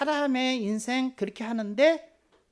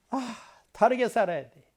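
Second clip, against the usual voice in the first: ordinary talk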